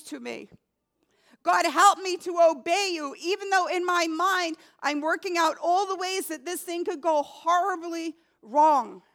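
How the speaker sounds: earnest pleading prayer, repeated like a plea; sample prayer. Shown as a demonstration. Pastor shows the congregation how to pray, pleading prayer. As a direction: pray it as a model for the flock.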